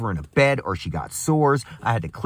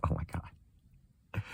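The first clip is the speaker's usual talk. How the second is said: slow mock whisper; 6 semitones lower, 15 dB quieter, much slower than usual. Mocking reaction to the insult.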